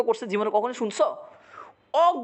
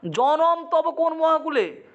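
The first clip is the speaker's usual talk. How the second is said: mock outraged question; 5 semitones higher, much slower than usual. Meghnad rebukes his uncle.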